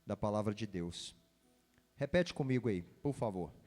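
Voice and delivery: ordinary delivery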